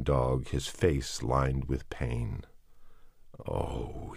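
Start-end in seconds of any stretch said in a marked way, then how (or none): 3.5-4.1 low, soft plaintive sigh; a quiet, lower plaintive murmur; plaintive mutter. A narrator's reading. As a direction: mutter it to yourself. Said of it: "he muttered plaintively".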